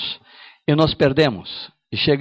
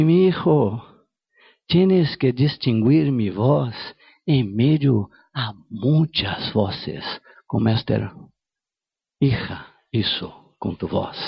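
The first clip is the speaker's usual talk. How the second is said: slow, solemn voice of God, lower at the end; 4 semitones lower than usual. Acted. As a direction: speak as God, slowly and gravely. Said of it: "Dios me habló fuerte". (voz de Dios, lenta y solemne)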